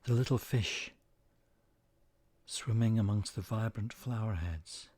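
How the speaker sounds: calm, measured meditation voice with long pauses; unhurried phrases, each left to settle; guided meditation. Acted. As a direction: guide listeners gently into the image, leaving space between phrases.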